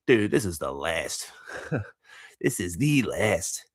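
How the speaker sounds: slow, drawn-out dread with a laugh; half-laughing, dragged-out reluctance; mock dread. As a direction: act out mild dread, slowly. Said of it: "this sense of dread".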